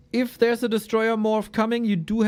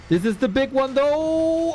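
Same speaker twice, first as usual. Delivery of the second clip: play-by-play; 5 semitones higher than usual. Real, not acted. Live casting of the fight.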